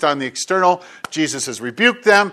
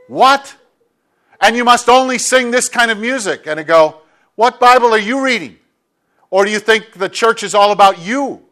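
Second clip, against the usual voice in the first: incredulous; 3 semitones higher than usual. Retold or imitated.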